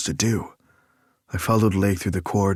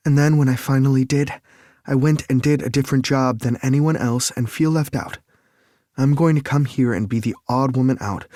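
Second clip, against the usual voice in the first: higher, louder, upset woman pouring it out; Lake's voice; 6 semitones higher, 3 dB louder than usual. A narrator's reading. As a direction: confess your failure with rising frustration. Lake's long confession.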